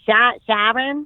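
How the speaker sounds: "Sha-, Sharon?" slow, stumbling, questioning rise; puzzled mishearing. Retold or imitated. Receptionist mishearing her name, slow and puzzled. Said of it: "they're like".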